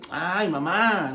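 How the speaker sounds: slow, drawn-out mock whine on "Ay, mamá"; whiny "ay mamá". Jesus to his mother, the wrong tone: slow whiny "Ay, mamá". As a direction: stretch "Ay, mamá" out like a sulky kid complaining. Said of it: "no era ese, ese tono".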